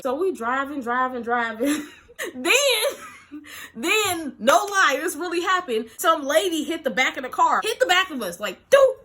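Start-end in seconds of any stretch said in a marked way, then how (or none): 1.9-8.9 high, laughing excited telling; giggly and high. Real, not acted. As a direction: tell it through laughter. Laughing retelling car hit.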